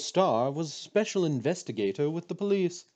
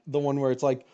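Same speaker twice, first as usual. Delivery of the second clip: ordinary talk, nothing marked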